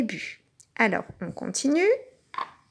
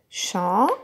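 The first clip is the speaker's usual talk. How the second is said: syllable by syllable; 4 semitones lower than usual. Shown as a demonstration. Teacher claps "Champignon" together with the child, syllable by syllable. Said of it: "On le fait ensemble".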